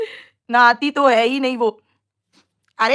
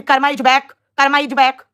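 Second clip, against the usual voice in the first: mock Hindi-English accent; 4 dB louder, slower than usual. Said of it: "इनकी English भी महान है".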